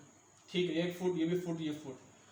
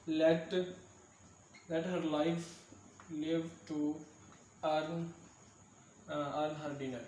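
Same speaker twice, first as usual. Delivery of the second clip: halting dictation of a verse, tailing off softer; word-by-word reading; 5 dB quieter, much slower than usual. Real, not acted. Teacher reading an example line of verse, word-by-word reading. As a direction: read it out in small pieces with long pauses.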